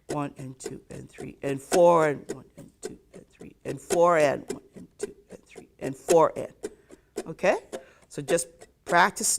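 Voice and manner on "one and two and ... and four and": one and two and three and FOUR, stress "four"; accent on four. Shown as a demonstration. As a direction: count with the punch on "four". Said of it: "Let's do it on four".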